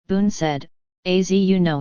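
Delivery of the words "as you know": a light mock French accent on Az you know; hint of a hammed-up French accent; bad French accent. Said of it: "he slipped into a heavy and very bad French accent".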